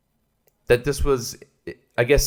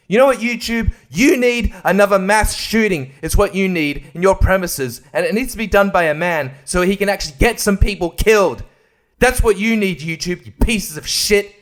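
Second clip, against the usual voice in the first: higher, louder furious tirade; angry rant; 5 semitones higher, 4 dB louder than usual. Real, not acted. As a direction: hurl it straight at YouTube. Ranting at YouTube.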